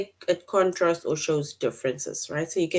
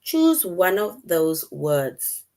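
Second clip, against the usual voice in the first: slow instruction; 4 dB louder, much slower than usual. Shown as a demonstration. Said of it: "If you look at these words".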